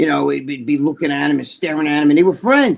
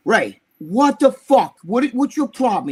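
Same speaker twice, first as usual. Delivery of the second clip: drawn-out, louder mock challenge; retold confrontation; 4 semitones higher, 4 dB louder, slower than usual. Telling how Rick cornered Ray, mildly angry challenge. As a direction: confront him in exasperation, lightly acted.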